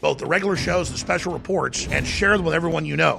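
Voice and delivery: soft radio promo read. Acted. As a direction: read it like a station ad. Reads an InfoWars promo.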